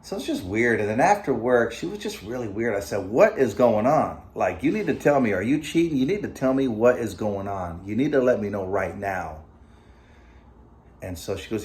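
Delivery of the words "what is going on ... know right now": retold demand, louder and pressing; angry confrontation. Husband confronting his wife about cheating, retold angry demand. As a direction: push her hard for the truth, mock-heated.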